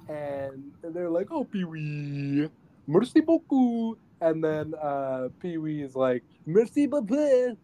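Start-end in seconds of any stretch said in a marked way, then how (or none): 1.3-4.0 higher, slow mock-French gushing; mock French thanks. Simone thanking Pee-wee, mock French. Voicing Simone and her boyfriend. 6.5-7.6 much higher, louder squeaky "Merci beaucoup"; Pee-wee voice. Retold or imitated. Pee-wee echoing Simone's thanks, squeaky.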